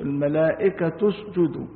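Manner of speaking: الملائكة اسجدوا linked as "al-malaa'ikatu-sjudu"; damma on the taa. Shown as a demonstration. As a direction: end الملائكة on "tu", running into اسجدوا. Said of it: "بالضم".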